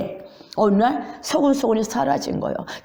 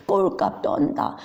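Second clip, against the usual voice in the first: mocking jeer; 5 semitones higher than usual. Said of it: "조롱하면서".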